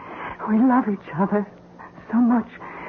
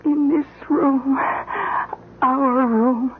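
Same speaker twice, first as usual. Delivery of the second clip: crying over the room she loves. Acted. Dying wife clings to husband.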